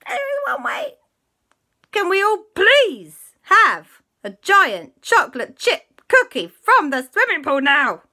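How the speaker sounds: hammed-up wheedling auntie voice; Auntie Lisa's plea. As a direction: beg sweetly for a cookie. Auntie Lisa asks for cookie.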